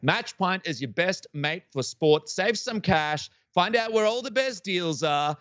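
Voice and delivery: upbeat sales pitch, smooth and rehearsed; sponsor ad read. Acted. Podcast host reads the sponsor spot to his guests, bright ad read. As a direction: sell the app like a radio spot.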